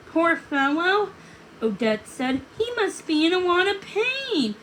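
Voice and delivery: tender. Acted.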